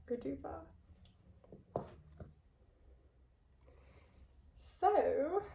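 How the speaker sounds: breathless, airy trailing words; out of breath. Real, not acted. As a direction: say it out of breath, running out of air. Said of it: "I'm getting out of breath already".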